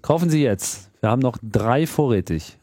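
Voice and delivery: chipper 1950s ad. Pretend. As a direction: sell it like an old TV ad. Mock sales pitch for film.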